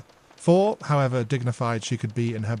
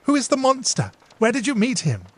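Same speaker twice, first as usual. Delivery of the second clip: high, louder mock alarm; playful mock concern; joking sister; 12 semitones higher, 5 dB louder than usual. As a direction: ham up the worry. Emily jokes.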